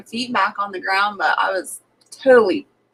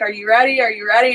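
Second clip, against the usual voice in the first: raised hype-up call, rising on ready; instructor calling out; faster than usual. Retold or imitated. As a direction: yell it over the plane noise. Skydiving instructor calling before jump.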